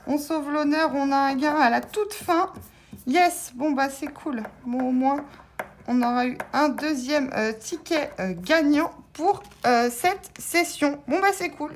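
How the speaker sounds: relieved and glad; pleased relief. Real, not acted. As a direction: keep the joy up, a bit calmer. Still happy after winning.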